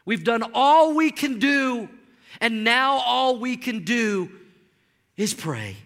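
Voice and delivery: a mild take on a weary congregant; resigned churchgoer. Retold or imitated. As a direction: voice the tired complaint of a worn-out believer. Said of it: "people say things like this".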